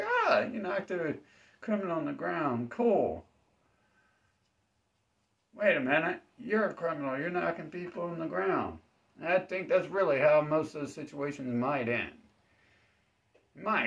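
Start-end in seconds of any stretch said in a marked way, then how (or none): 0.0-8.8 high, mocking official voice, from praise to accusation; mock government official. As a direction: play a fickle cop who turns on you. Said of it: "they're like".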